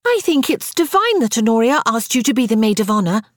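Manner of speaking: put-on high-pitched, girlish enthusiasm; gushing. A narrator's reading. Little Frances admires Sarah's wedding role, gushing. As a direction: gush dreamily over the honour. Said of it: "Frances gushed".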